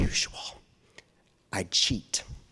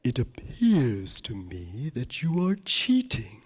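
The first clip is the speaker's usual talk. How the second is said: stern teacher; 3 semitones lower, slower than usual. Retold or imitated. And she said.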